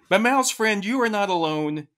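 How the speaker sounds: lifted opening, settling into measured verse; poem recital. Acted. Co-host reading Burns's famous stanza to the host, reciting.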